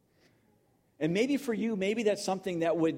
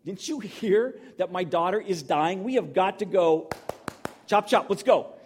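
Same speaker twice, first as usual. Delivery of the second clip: urgent, rising louder pleading; impatient panicked father, louder by the end; frantic father; 4 semitones higher, 4 dB louder than usual. Retold or imitated. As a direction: hurry him up, desperate dad. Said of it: "I'm like".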